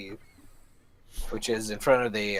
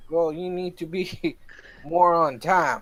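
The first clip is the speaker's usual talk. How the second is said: scolding; 8 semitones higher, 3 dB louder than usual. Acted. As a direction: chide them for being late. Scolding party member in character.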